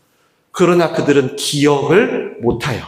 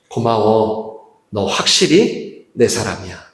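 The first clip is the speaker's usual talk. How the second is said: tender Lord's voice; 4 semitones lower than usual. Acted. Jesus thanking a humble believer, low and tender. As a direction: speak like a gentle voice thanking a forgotten kindness.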